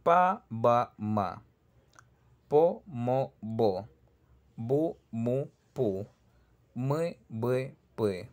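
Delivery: Pa, ba, ma with each lip sound crisp and distinct; p, b, m drill. Shown as a demonstration. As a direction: separate the three lip sounds clearly. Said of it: "Ahora vamos a ver otro, miren".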